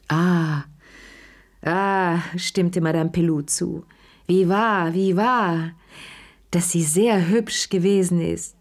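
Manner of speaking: put-on a fussing old lady who won't let guests go; gushing Madame Pelou. A narrator's reading.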